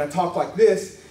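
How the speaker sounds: lightly preachy tone; a hint of preaching; preacher mode. Shown as a demonstration. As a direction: slip into a mild preacher's delivery. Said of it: "I'm in my preacher mode right now".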